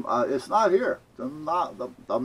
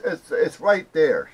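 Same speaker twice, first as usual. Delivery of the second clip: insistent clerk; 6 semitones higher, 7 dB louder, slower than usual. Retold or imitated. Clerk insisting in retold argument.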